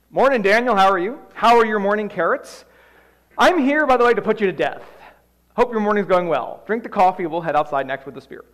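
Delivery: loud, chipper, casual guard; breezy guard. Acted. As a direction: greet him like an old friend while announcing his death. Guard cheerfully announces Daniel's execution.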